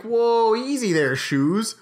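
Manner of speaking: high, loud mock Eastern accent; Eastern greeting. Greeting someone not seen in a while, hammed-up Eastern accent. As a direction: call it out like an easterner. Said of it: "That's the Eastern thing".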